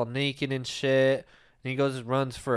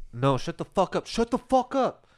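mock drunk yell; 7 semitones higher than usual. Imitating drunk guy cursing.

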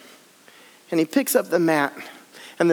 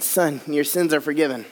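gentle Jesus; 5 semitones lower than usual. Acted. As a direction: speak it gently like a blessing. Repeating Jesus' words.

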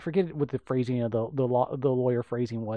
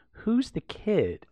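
mock Bill Murray; 8 semitones higher, much slower than usual. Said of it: "turns to Galligan and goes".

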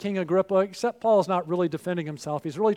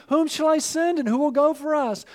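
urgent call; 7 semitones higher than usual. Retold or imitated. Preacher's rising appeal.

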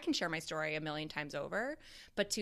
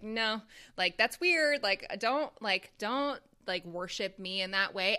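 mock refusal; 2 semitones higher, 4 dB louder than usual. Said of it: "I'd be like".

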